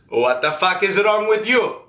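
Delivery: rough dad demanding answers; gruff angry dad. Retold or imitated. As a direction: bark it like an annoyed father. Dad yelling at crying friend.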